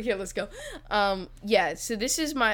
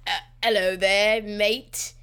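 British Adam Sandler; 4 dB louder, slower than usual. Pretend. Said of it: "let's do Adam Sandler".

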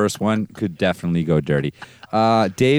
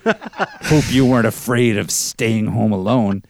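laughing; 4 semitones higher, 4 dB louder than usual. Acted. Father's line, laughing.

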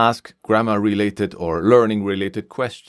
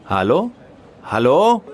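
calling out; 7 semitones higher, 5 dB louder than usual. Acted. Line dead, calling out.

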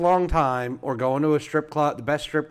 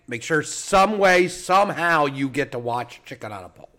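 promo plug. Acted.

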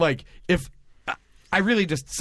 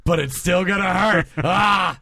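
Wolverine impression. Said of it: "That's my Cyclops im-, or my Wolverine impression".

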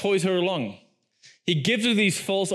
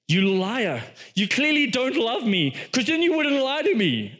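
higher-pitched, lightly acted reproach; mock accusation; 4 semitones higher than usual. Delilah turns it back on Samson, mock wounded accusation. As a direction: imitate a manipulator turning the blame. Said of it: "she manipulates the entire thing and she turns it right back on him and she says".

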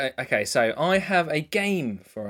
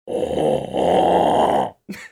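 dinosaur growl; 13 semitones lower, 3 dB louder than usual. Pretend. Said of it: "a singer as a dinosaur".

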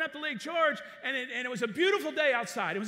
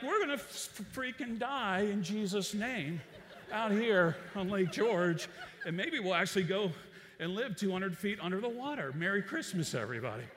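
laughing mock doom; 4 semitones lower than usual. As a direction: joke about dying while laughing. Retold panic remark during storm.

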